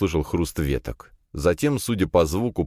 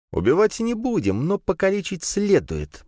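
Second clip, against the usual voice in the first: through teeth. A narrator's reading. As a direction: hiss a cold threat. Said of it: "процедила Надя".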